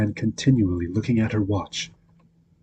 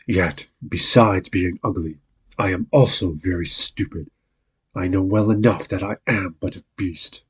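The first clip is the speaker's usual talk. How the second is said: lightly voiced sad beast. Beast speaks of himself.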